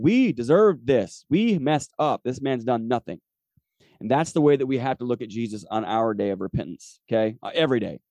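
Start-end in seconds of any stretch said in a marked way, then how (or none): 0.0-3.2 louder, emphatic retold confession, easing at the end; preacher acting out an owning-up; repentant admission. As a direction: own up to it with weight on each word. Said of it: "an act of repentance looking at the other guy saying".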